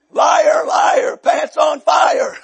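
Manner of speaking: loud playground taunt; slow, high, punched-out teasing chant; mock accusation. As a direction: call out the fib playfully. Preacher mocks the hosts' claim.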